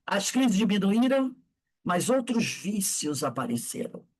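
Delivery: measured, emphatic reading with pauses; book reading aloud. A narrator's reading. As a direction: read the story out solemnly, phrase by phrase.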